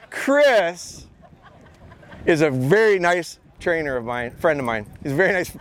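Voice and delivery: nervous, stumbling over words; tripping on words from nerves; stage fright. Real, not acted. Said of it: "I'm so nervous right now. I'm stumbling on my words".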